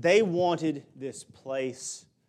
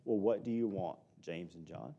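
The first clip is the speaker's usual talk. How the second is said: softer, gentle and sincere, a calm real question to the disciples; 5 semitones lower, 7 dB quieter than usual. Retold or imitated. Jesus kindly asking James and John what they want, sincere and soft. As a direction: ask it gently, truly wanting to know. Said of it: "this was not anything but a sincere".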